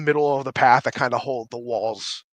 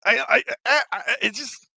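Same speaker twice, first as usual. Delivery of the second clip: higher, louder mocking rant; ranting character; 4 semitones higher, 7 dB louder than usual. The voice mocks the owl player, loud ranting. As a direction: needle the bird person. NPC rants at bird person.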